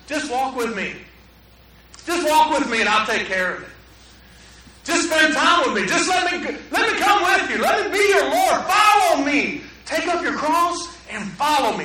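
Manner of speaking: invite, then call out with full force; voice of Jesus. Retold or imitated. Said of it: "What if Jesus said".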